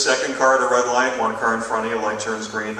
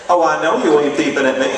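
louder, sassy disbelief; indignant sass; 6 dB louder than usual. Retold or imitated. Honked-at driver, sassy indignation. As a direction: dare them to honk again.

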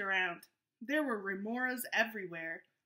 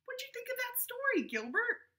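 asking the puppet; 13 semitones higher than usual. Real, not acted. Talking to puppet Gilbert.

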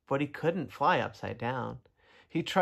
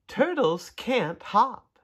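slow frog voice; 7 semitones higher, much slower than usual. Acted. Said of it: "she said".

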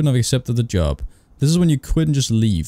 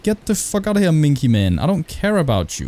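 annoyed yell; 4 semitones higher than usual. Real, not acted. Chasing off the creepy ghost.

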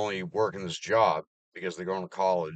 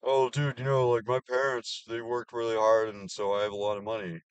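higher, louder mock of a clueless kid; mocking Gen Z kid; 4 semitones higher, 3 dB louder than usual. Mocking a Gen Z coworker, lightly higher voice. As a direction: mimic a spoiled young guy. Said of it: "It's all Gen Z bullshit".

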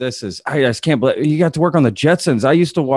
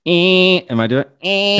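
trying Bugs Bunny; 5 semitones higher than usual. Shown as a demonstration. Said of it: "my turn".

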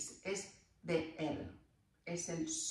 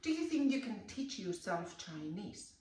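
slow, careful teach yourself; slow teaching demo; slower than usual. Shown as a demonstration. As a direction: spell it out slowly for the class. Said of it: "yo digo".

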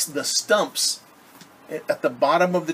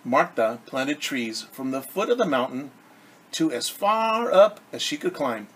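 picture-book read-aloud for a class; lightly lilting storyteller voice; story narration. A narrator's reading. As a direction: read it gently like a storybook to children. Reads picture book to children.

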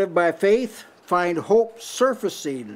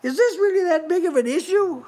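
inner voice; 11 semitones higher than usual. Acted. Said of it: "a voice will say".

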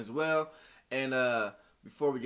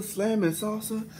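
hype; 9 semitones higher, 4 dB louder, slower than usual. Acted. Hyped sponsor read.

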